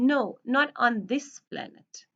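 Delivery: slow line with "this" picked out by emphasis; stress on THIS. Acted. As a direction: lean on the word "this", drawing the line out slowly. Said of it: "वो this पर वो stress करेगा".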